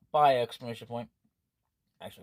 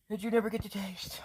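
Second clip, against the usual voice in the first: whispered aside; 7 semitones higher, 5 dB louder than usual. Real, not acted. Player whispering about tea you never taste. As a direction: whisper it like a secret.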